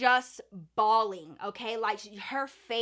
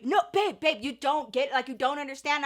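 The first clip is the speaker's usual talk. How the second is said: put-on pleading boyfriend; 4 dB louder than usual. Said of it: "He starts coming behind me".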